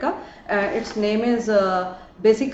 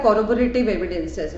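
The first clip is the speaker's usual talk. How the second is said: slow spelled-out term; much slower than usual. Shown as a demonstration. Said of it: "जिसका मतलब होता है supportive".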